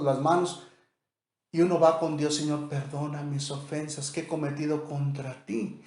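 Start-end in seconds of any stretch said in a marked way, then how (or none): 2.4-5.8 softer pleading prayer to the Lord. Shown as a demonstration. Believer confessing to God: soft pleading prayer. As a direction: plead gently for forgiveness.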